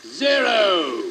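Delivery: rising, eager countdown to lift-off; a child's thrilled launch countdown; excited countdown. Acted. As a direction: count down to zero with mounting excitement. Countdown before the plane takes off.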